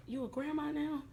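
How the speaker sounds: high-pitched surprised question, imitated; incredulous retold question, pitched well up; mock amazement. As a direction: imitate him marveling at the news. Visitor reacts to supposed grandbaby.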